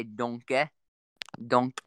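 lightly put-on Australian accent. Shown as a demonstration. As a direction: demonstrate an Australian twang. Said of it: "Oh, for Australian".

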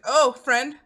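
lightly voiced eager dog greeting; a hint of an excited dog spotting a friend. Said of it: "he's just like".

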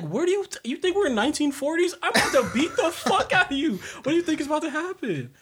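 high, laughing threat; cracking up while threatening; laughing mock threat. Imagining confronting the spitting lady, laughing high. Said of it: "I'm like".

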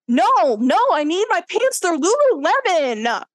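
mock-pleading over his pants; whiny man. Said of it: "he was like".

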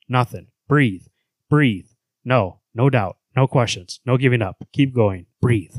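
slow, grave narration with heavy repeats; dramatic comic reading. Acted. Host reading a comic's narration to co-hosts, dramatic and slow. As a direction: read the panel like a tense audiobook.

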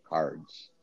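cards with a clear R; careful pronunciation. Shown as a demonstration. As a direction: stress the R in cards, not cahds. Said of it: "hold on, I wanna correct myself".

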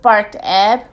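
measured picture-book narration with lilting phrases; story reading. A narrator's reading. Podcast host reading a children's book, storytelling. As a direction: read it aloud to small children.

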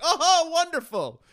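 high, loud, slow dripping sarcasm; sarcastic. Retold or imitated. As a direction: drag it out, utterly unimpressed. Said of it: "I was like".

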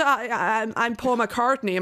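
mock Jack Black's botched British accent; slow, hammed-up attempt at a British accent; failed British accent. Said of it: "inte ens en brittisk dialekt".

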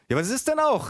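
high-pitched aunt protesting; storyteller's shrilly pitched aunt; aunt calling out. A narrator's reading. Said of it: "rief meine Tante".

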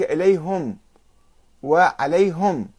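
إليهم and عليهم ending hum, slowly; damma on ha. Shown as a demonstration. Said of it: "بضم الهاء". (إليهم وعليهم بضم الهاء ببطء)

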